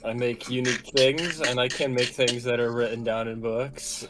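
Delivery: words pushed through clenched teeth; through gritted teeth. Acted. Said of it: "Callie says through gritted teeth".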